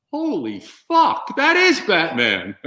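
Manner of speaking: high, slow, stunned exclamation; awed disbelief. Retold or imitated. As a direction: gasp it out in awe. Awed diner reacts.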